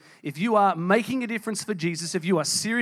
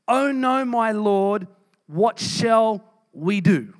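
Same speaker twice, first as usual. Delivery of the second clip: alarmed servant; 2 semitones higher, 4 dB louder, much slower than usual. Acted. Servant finds city surrounded by army.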